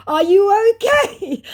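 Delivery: high, slow, put-on mocking voice; mocking scammer voice. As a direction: play the scammer sneering at her. Voicing scammer's mocking question.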